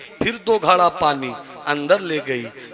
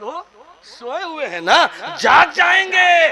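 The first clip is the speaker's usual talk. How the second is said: louder mock warning; 12 semitones higher than usual. Shown as a demonstration. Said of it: "repeated louder for contrast".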